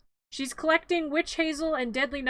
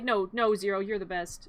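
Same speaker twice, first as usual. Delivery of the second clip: affectionate reply; 5 semitones lower than usual. Retold or imitated. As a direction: gently hand the praise back, leaning on "you're". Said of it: "And I'm like".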